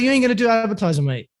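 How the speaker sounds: high, fast Cockney refusal; Jason Statham-style Cockney. Retold or imitated. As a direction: imitate a Cockney dad overruling his son. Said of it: "He speaks like Jason Statham".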